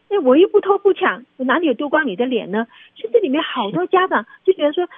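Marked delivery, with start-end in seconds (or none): 0.1-2.7 indignant retort. Retold or imitated. Imagined indignant reply to parent.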